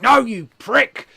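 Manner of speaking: loud, high, slow bellow; mock wrestler shout. McMania yelling at Higton at the party, slow bellow. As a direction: drag out the yell like a wrestler on the mic.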